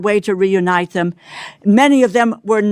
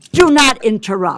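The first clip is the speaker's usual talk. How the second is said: raised, higher voice cutting him off; firm rebuke; 5 semitones higher than usual. Real, not acted. Congresswoman rebuking the interrupting secretary, raised and firm. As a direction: shut down the interruption firmly. Heated hearing exchange.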